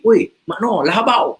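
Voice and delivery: panggil kuat dari jauh, nada mesra; jeritan mesra. Retold or imitated. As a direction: laung nama kawan lama dengan gembira. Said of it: "dia jerit". (jeritan mesra kawan lama dari Melaka)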